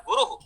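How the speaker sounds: गुरुः ending in an echoed "hu"; visarga after u. Shown as a demonstration. Teacher showing visarga after ukar, गुरुः said with final "hu". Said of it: "इसमें उकार के बाद में विसर्ग सुनाई दे रहा है".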